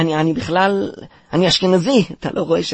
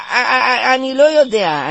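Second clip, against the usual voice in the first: high, louder laughing whimper; nervous laughing panic; 7 semitones higher, 4 dB louder, slower than usual. Acted. Panicked under parent's questioning. (צחוק נבהל וגבוה)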